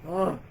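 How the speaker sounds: exasperated "ugh", retold; short fed-up groan; disgusted groan. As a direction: groan in mock disgust at careless people. Retold disgust at people leaving poop.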